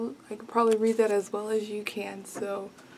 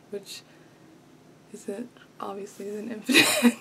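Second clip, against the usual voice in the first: whispered aside. Real, not acted. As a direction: whisper it as a joke. Self-deprecating aside.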